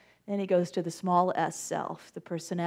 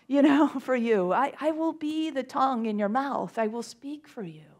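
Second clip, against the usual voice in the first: reassuring God; 4 semitones higher, 3 dB louder than usual. Acted. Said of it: "And God says".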